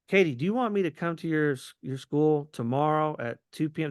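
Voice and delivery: rushed, pushy appointment request; too pushy ask. Shown as a demonstration. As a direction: push straight for the meeting. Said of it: "That's too scary".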